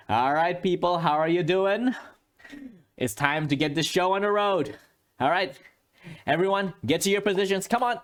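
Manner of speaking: high, brisk director calling everyone; hearty film director voice; director rallying the set. Acted. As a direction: clap the crew into action.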